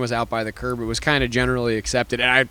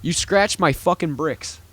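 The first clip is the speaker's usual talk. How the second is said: slow quote; 3 semitones higher, slower than usual. Retold or imitated. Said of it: "said the words, I quote".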